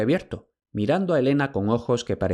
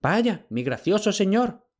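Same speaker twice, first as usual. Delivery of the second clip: high, slow, hesitant plea; a hint of a stammer; stammering old slave; 10 semitones higher, slower than usual. A narrator's reading. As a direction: servant fumbling before his master. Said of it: "tartamudeó Jantias".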